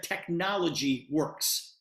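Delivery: "technology" drawn out slowly and set apart; stress on technology. Retold or imitated. Correcting product to his word, slow stress on "technology". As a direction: spell out the word choice by slowing on "technology". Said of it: "he didn't call it a product".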